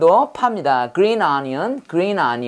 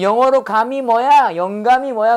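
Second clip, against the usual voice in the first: imitating grandma asking; 3 semitones higher than usual. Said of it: "그래서".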